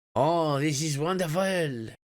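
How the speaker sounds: put-on French accent. In a role-play scene with another player, speaking in a French accent. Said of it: "French accent so now".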